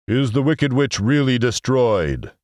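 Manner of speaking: grand voice faintly wavering; slightly trembling. Acted. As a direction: ask it slowly, a little unnerved. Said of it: "thought it trembled a little".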